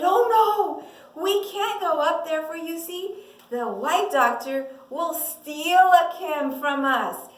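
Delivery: alarmed protest, loud at first; acted fearful mother. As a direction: object with a touch of fear. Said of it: "She was so afraid".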